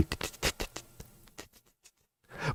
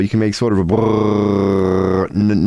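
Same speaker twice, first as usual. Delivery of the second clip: Brummgeräusch nachgemacht; 3 semitones lower than usual. Shown as a demonstration.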